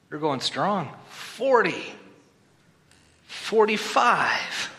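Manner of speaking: drawn-out calling of the years, rising to excited; auctioneer. Pretend. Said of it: "I feel like an auctioneer".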